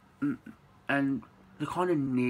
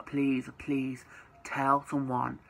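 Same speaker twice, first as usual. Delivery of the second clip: whispered plea; much slower than usual. Real, not acted. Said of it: "for anyone who is going through this".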